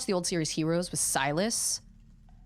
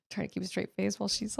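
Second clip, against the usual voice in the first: laughing; faster than usual. Real, not acted. Laughs while her child is upset.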